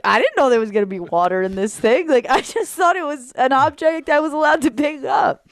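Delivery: defensive puppy, rising to a half shout; flustered dog voice. Retold or imitated. Owner voicing her dog after spilling water, flustered half shout.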